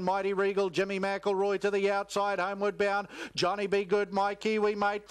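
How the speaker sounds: rapid live race commentary, rising with the finish; race call. Real, not acted. Race caller to the crowd, live play-by-play call.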